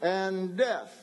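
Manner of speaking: God offers the doors like a game show host. Acted. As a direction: present the prizes like a game show. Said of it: "here's God saying".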